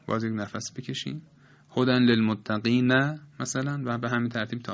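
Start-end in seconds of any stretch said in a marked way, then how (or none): 1.8-3.2 wrong chopped recitation. Shown as a demonstration. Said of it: "نباید بخوانیم".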